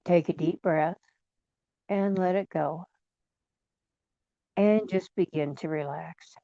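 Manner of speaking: calm guided meditation with long pauses; guided relaxation. Real, not acted. Guide leading listeners to relax and drift down, calm and unhurried. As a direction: ease them gently into relaxing, pausing between phrases.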